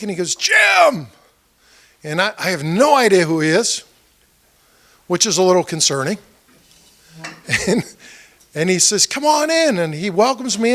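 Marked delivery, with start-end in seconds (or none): 0.3-1.1 high, drawn-out excited shout of recognition; enthusiastic greeting. Retold or imitated. Man greeting a visitor at his door, enthusiastic. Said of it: "he gets all enthusiastic". 9.1-9.8 high-pitched, eager invitation; enthusiastic welcome. Retold or imitated. Man welcoming a candidate into his place, enthusiastic. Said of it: "he gets all enthusiastic".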